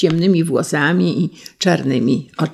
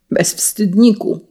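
restrained exclamation, higher and drawn out; mild narrated cry; 4 semitones higher than usual. A narrator's reading. Prince rebuking the young officer, mild indignant cry. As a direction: cry it out slowly, without a full shout. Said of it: "krzyknął książę".

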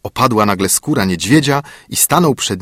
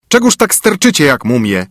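higher, louder angry dwarf; angry dwarf call; 5 semitones higher, 4 dB louder than usual. A narrator's reading. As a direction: bark at the girls as the dwarf. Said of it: "zawołał Karzeł".

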